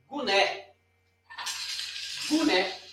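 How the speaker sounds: guné said slowly, stress on the last syllable né; guné, open final é; teaching pronunciation. Shown as a demonstration. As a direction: model the word guné clearly for the class. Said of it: "eu escrevi guné".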